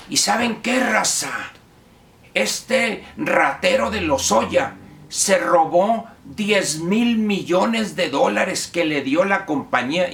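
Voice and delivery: a hint of gangster-style accuser; imitating gang type. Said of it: "más cara de pandillero que otra cosa".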